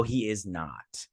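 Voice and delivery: slow, whispered dig; whispered aside. Real, not acted. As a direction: breathe it as a snide aside. Snarky aside about bad painting.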